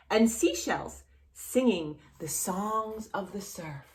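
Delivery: gentle storybook reading voice; reading to children. A narrator's reading. Teacher reading a picture book to a small child, gentle storybook voice.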